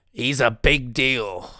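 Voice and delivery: slow, drawn-out attempt at New Zealand; failed New Zealand accent. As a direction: botch a Kiwi accent on purpose. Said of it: "tried to fucking try to do a fucking New Zealand accent".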